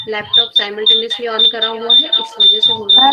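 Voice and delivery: echo. Real, not acted. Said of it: "ma'am, इको आ रहा है।".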